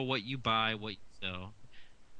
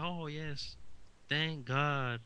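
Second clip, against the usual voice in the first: mock relieved crowd; 4 semitones higher, much slower than usual. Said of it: "they'll be like that".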